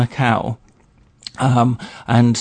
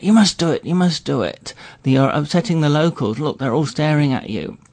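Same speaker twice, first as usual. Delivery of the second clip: retold anxious urging, pitched up at first; urgent pleading; 3 semitones higher than usual. Friends urging him to lift his hat, retold urgent pleading.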